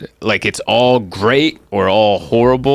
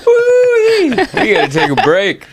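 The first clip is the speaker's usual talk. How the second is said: winded exclamation; 14 semitones higher, 3 dB louder, slower than usual. Retold or imitated. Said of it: "I'm like".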